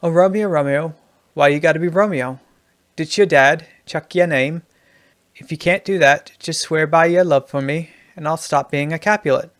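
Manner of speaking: lightly put-on Australian lilt; Australian accent. Shown as a demonstration. Writing teacher reading Juliet rewritten as an Australian, light Australian accent. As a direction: recite it with a hint of Aussie.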